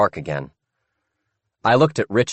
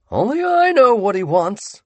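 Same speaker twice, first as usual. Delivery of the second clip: creepy Sammy; 6 dB louder than usual. Acted.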